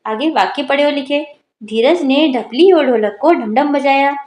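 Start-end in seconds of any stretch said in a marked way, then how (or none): 1.6-4.2 put-on slow, careful reading for children; slow model reading. Shown as a demonstration. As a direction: read it out slowly, word by word, as a model. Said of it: "यहाँ पर बच्चों से पढ़वाएंगे".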